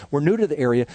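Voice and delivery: a dry thought after nine months; dry inner mockery. Pastor privately scoffs at the mom's claim, dry and wry. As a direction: repeat "We're new to the area" with wry disbelief. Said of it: "And I'm thinking".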